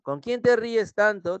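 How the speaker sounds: high, slow questioning; toxic partner. Acted. Toxic partner asks who you laugh with, accusing tone. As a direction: play a toxic partner demanding an answer. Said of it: "Te dice tu tóxico o tu tóxica".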